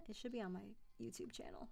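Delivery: fast, unvoiced whisper; muttering to herself. Real, not acted. Searching her channel for the demo reel, whispering to herself. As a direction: whisper it to yourself while searching. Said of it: "muttering to herself".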